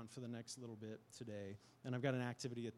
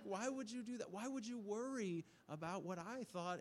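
tearful plea; 8 semitones higher than usual. Retold or imitated. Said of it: "I'm like".

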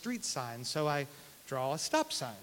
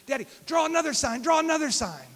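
put-on two-year-old son; 10 semitones higher, 9 dB louder than usual. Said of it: "He goes".

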